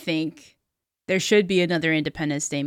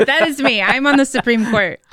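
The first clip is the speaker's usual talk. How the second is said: laughing; 5 semitones higher than usual. Real, not acted. Laughing admission.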